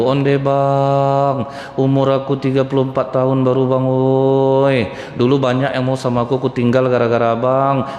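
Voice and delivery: a hint of a widow's lament over her husband; lightly voiced widow keening over her late husband; wailing widow. Widow mourning her husband, lightly acted lament. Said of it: "Ah, itu meratap".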